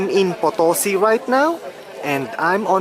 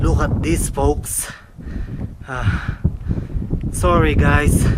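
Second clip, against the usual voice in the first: out of breath; slower than usual. Real, not acted. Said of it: "I'm catching my breath".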